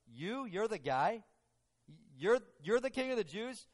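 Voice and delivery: mild mock disbelief, stressing YOU; incredulous questioning. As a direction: imitate a doubtful interrogator sizing someone up. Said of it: "In his mind, it's almost like".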